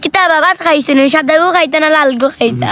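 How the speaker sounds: Sylheti-accented Bangla; Sylheti dialect. Shown as a demonstration. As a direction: play a Sylheti local offering food. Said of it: "ওই যে সিলেটি ভাষা".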